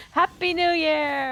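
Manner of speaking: high slow cheering shout; excited yell. Real, not acted. Yells back on request.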